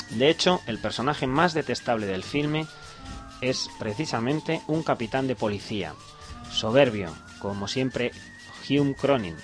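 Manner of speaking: measured read of a written film review; radio presenter reading a review; reading aloud. Real, not acted. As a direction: read the critic's text out in full phrases.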